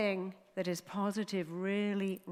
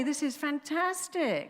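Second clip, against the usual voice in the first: mock delight; 7 semitones higher, slower than usual. Voicing junkies' delight.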